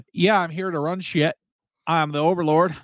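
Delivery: loosely attempted cowboy accent. Host imagines absent buddy showing up for the trip, hint of cowboy accent. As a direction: lightly put on a vague cowboy accent. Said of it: "I don't know what kind of accent I was going for. I guess cowboy".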